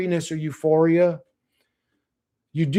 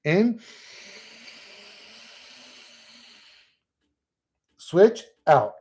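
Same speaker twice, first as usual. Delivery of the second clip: guided breathing cue; 9 semitones higher, much slower than usual. Shown as a demonstration. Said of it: "Alternate nasal breathing".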